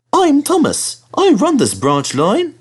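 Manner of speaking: high, slow proud engine; proud Thomas. Acted. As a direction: announce it proudly. Thomas introduces himself proudly.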